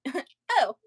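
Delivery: lightly mocking high mom voice; mom finding glasses. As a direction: pitch way up like a mom who just found her glasses. Mom finds her glasses.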